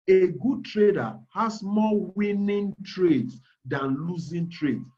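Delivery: slow, measured, every word placed; careful, deliberate wording. Shown as a demonstration. To seminar students, choosing words carefully and slowly. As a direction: weigh each word so no one is misled. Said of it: "I'm careful picking my words".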